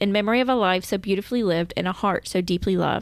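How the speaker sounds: plain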